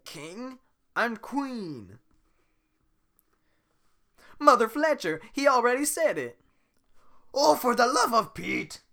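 high, loud exasperation; frantic shouting. Acted. Shrek frantic outside the church, high loud yell. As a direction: yell it in a panic.

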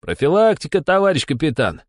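barking. A narrator's reading. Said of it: "рявкнул Бесов".

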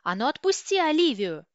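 loud, high-pitched outraged yell; indignant shout. A narrator's reading. Sister yelling at her sibling's captor, indignant shout. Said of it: "возмущенно проорала сестрица в темноту".

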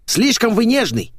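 high loud common woman voice; brash maid. Acted. Maid teasing her naked employer, cheeky and loud. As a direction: play a cheeky brash housemaid. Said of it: "заявила прислуга".

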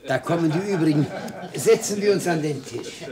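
laughing while speaking. Acted. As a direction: talk through a light laugh as guests arrive. Defender laughs as guests arrive. (lachend gesprochen)

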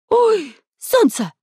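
very high drawn-out squeal; high-pitched yelp. A narrator's reading. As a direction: squeal it out in alarm. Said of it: "взвизгнул голос".

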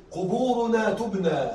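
slow, measured recitation of verse; poem recital. Shown as a demonstration. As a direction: recite the poem slowly, line by line. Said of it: "الشاعر يقول". (إلقاء شعري بطيء)

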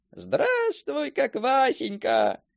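slow, drawn-out happy greeting; joyful call. Retold or imitated. Deacon greets his puppy, slow joyful call. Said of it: "закричали".

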